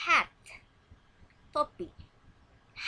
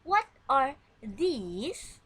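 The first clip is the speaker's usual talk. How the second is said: drawn-out question, higher and louder; very slow model question; 4 semitones higher, 7 dB louder, much slower than usual. Shown as a demonstration. Teacher reading a plural question for pupils, very slow and loud. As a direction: stretch every word. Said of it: "You have to repeat after me".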